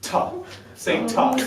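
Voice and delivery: a short, crisp "tuh" with a puff of air; crisp "tuh" consonant demo; tuh syllable. Shown as a demonstration. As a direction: say "tuh" cleanly, the t released hard. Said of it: "say T U H".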